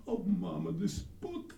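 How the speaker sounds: put-on little boy wailing over a book; high, drawn-out wail on the last words; hammed-up tearful whimper building to a wail; mock crying child. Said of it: "and he was crying".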